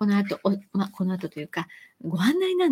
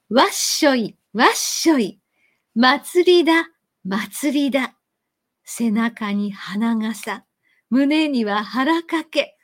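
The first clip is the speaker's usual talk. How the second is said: measured recital for an audience, slowing at the end; listening-style recital; 4 dB louder, slower than usual. Shown as a demonstration. For residents, a reading meant to be heard. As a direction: read it to be listened to, not joined. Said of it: "こんな風に読むと思うんですよ".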